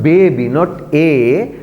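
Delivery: put-on "baby" and "A" with a steady eh, no glide; wrong pure vowel. Shown as a demonstration. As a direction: hold the A as one flat long eh sound. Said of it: "there is no A sound".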